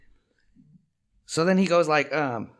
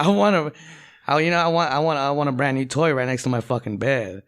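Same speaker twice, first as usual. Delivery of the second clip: put-on kid demanding presents; 3 semitones higher, 4 dB louder than usual. Kid Timmy voiced, demanding, laughing.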